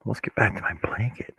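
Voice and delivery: whispering. Real, not acted. Aside to herself while crocheting.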